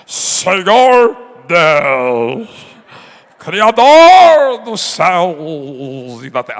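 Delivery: trembling pious voice. Retold or imitated. Preacher mocking believers who change voice to pray, trembling solemn. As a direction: ham up an overly solemn trembling prayer. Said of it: "Até treme a voz".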